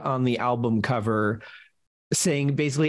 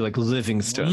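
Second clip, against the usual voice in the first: clenched teeth; 4 semitones lower than usual. Shown as a demonstration. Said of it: "you have to say it with clenched teeth too".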